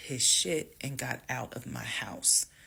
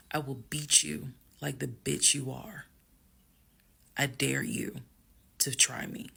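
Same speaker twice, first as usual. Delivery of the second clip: calm threat. Retold or imitated. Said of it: "calmly got close to him".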